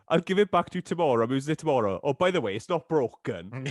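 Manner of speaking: mock breezy promise, fast then dragging the last line; mock breezy Mike. Friend mimicking Mike brushing off the broken washer, mock breezy. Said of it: "you went like this".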